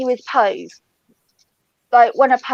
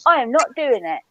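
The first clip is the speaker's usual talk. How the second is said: indignant refusal; 3 semitones higher, faster than usual. Acted. Telling a partner the row stays in the house, indignant. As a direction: act out putting your foot down, pitched up.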